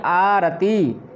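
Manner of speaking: आरती with a full र, आ-र-ती; the correct आरती, three clear syllables; आरती spoken fully; right pronunciation. Shown as a demonstration. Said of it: "आरती नहीं है".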